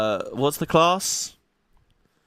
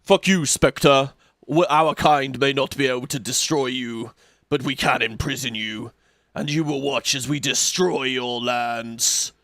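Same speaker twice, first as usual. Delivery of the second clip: slow menacing king; slower than usual. Acted. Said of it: "And he's like".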